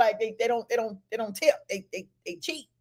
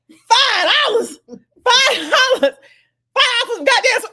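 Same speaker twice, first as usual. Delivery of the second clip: slow, high, loud outraged yell; loud outraged shout; 11 semitones higher, 6 dB louder, slower than usual. Retold or imitated. Date yelling at the concession counter, outraged shout. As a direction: bellow it in disbelief at the price. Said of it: "and I'm talking about loud".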